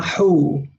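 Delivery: "hu" with a rounded oo vowel; dhamma oo vowel. Shown as a demonstration. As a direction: round the lips on "hu". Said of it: "Ha with dhamma".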